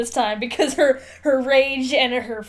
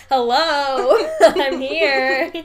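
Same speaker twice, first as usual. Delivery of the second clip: laughing quote; 5 dB louder, much slower than usual. Retold or imitated. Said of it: "He's like".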